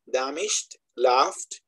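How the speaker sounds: damaged and laughed with no added syllable; correct -ed pronunciation. Shown as a demonstration. Teacher listing examples, damaged and laughed without a sounded E. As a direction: end damaged and laughed straight on the consonant. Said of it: "Entonces sería".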